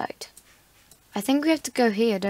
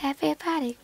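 mock party host; 2 semitones higher than usual. Greeting strangers in game like a hammed-up party host. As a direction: play the over-eager social butterfly. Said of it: "I'm being social".

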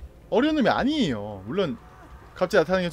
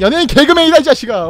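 mock taunting shout; 5 semitones higher, 9 dB louder than usual. Turning on Freddy, shouting.

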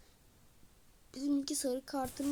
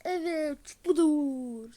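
excited cheer; 3 semitones higher, 8 dB louder, much slower than usual. Real, not acted. Celebrating right after the goal.

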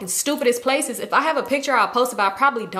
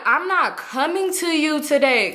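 higher, slow and emphatic refusal; firm refusal; 5 semitones higher, slower than usual. Retold or imitated. Customer refusing the pushy nail tech, firm refusal. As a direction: spell it out slowly, higher-pitched.

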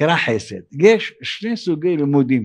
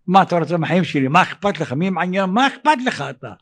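irritated brush-off, rising at the end; quick, mock-annoyed retort; acted annoyance. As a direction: push back at a critic, mildly indignant. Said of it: "אתה כועס, אתה רוגז".

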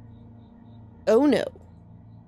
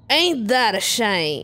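Southern villain; 4 semitones lower than usual. Acted. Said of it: "I'm making him Southern".

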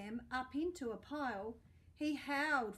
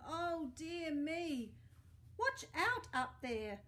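worried cry; 3 semitones higher, slower than usual. Acted. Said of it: "good Trevor did cry".

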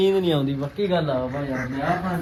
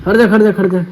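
dramatic loud aunty; 4 semitones higher, 9 dB louder than usual. Real, not acted. Loud dramatic certificate reading.

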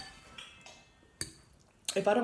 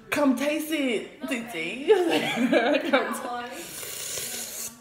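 slow laughing call; 2 semitones higher, 5 dB louder, much slower than usual. Real, not acted. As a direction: laugh through the invite. Calling again while laughing.

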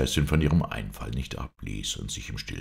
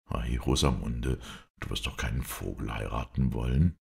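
baffled king; 4 semitones lower than usual. Acted. Baffled king answers his sister.

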